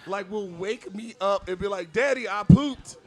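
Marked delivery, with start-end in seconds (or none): 1.9-3.0 put-on high, excited kid announcing; little kid voice. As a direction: imitate a proud little boy. Son's voice retold by dad.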